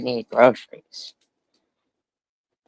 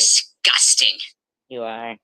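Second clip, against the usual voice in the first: hissed whisper. Real, not acted. Insult whispered after screaming.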